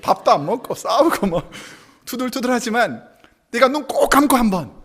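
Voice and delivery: usual speaking voice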